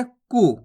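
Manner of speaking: "कु" with a short u; don't stretch the u of "कु"; short vowel. Shown as a demonstration. Teacher reading the small u sign, "कु" kept short. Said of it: "ज्यादा नहीं खींचना इसको".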